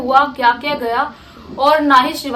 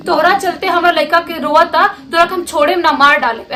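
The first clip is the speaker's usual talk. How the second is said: put-on Bhojpuri accent, a touch louder and threatening; Bhojpuri threat; 4 dB louder than usual. Woman threatening Kiran in Bhojpuri, mildly angry. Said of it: "Bhojpuri में बोलती है".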